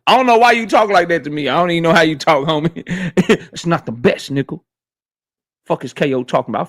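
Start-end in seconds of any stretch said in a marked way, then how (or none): 3.5-6.7 mock chatter voice. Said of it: "Fresh Baker say".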